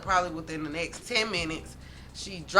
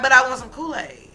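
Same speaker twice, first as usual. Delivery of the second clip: whiny little sister; 5 semitones higher, 9 dB louder than usual. Retold or imitated. Whining little sister wants Kool-Aid.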